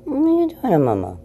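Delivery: very high pet talk; cooing at the cat. Real, not acted. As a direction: squeak the question at the cat.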